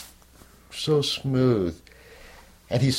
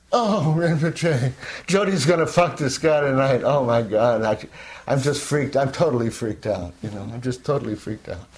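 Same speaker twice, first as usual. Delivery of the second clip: panicked confession; 3 semitones higher than usual. Retold or imitated. His anguished confession to his guru.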